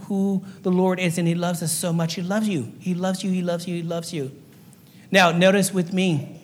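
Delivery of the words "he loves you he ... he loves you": fading softer with each repeat; tender repetition. Real, not acted. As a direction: let each one settle, quieter.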